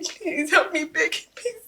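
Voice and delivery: whispered tearful plea; crying plea. Acted. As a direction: beg through fading sobs. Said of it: "Stop crying".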